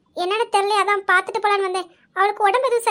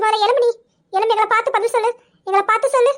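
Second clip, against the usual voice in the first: firm, raised-voice urging; insistent demand; 3 semitones higher, 4 dB louder, faster than usual. Acted. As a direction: press a withdrawn friend for an answer. Friend demands that she answer. (வற்புறுத்தி அதட்டும் குரலில்)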